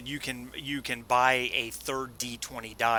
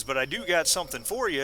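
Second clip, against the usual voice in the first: lightly put-on Texan accent; a hint of a thick Texan cowboy accent; 4 semitones higher than usual. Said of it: "thick Texan accent".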